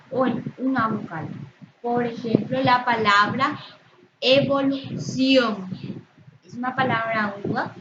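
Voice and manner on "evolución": "evolución" slow, final syllable stretched and louder; stress on last syllable. Shown as a demonstration. Teacher showing students an aguda word, stressed "ción" in "evolución". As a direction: lean hard on the "ción" of "evolución". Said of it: "su sílaba tónica es la última".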